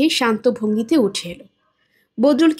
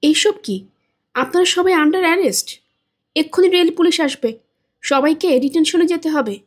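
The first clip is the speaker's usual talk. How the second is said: stunned, higher, half-panicked protest; bewildered; 3 semitones higher than usual. Acted. Bleeding Badrul, dazed after the slap, stunned protest. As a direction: blurt it out dazed and shocked. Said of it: "হতভম্ব গলায় বলল".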